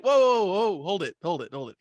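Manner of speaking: loud, high mock call to stop; mock calling back. Billy calling the kid back, loud and urgent. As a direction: call him back, hold it. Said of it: "He's like".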